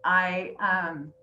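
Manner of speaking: apologising while fighting back tears; slightly choked up, trying not to cry; a little teary. Real, not acted. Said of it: "I'm gonna get a little teary-eyed".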